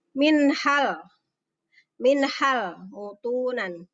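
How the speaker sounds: "Minhal" with a distinct n and breath of h; clear ha. Shown as a demonstration. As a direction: recite "minhal mutunan" slowly, no hum. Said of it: "haknya dibaca jelas".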